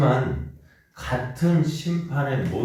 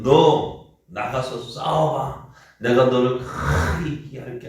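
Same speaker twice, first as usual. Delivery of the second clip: louder, slow, emboldening command; lightly voiced God commanding; 6 dB louder, slower than usual. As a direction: send him into battle. God voiced urging Assyria. (아수르를 싸움에 내보내는 하나님, 약하게 흉내)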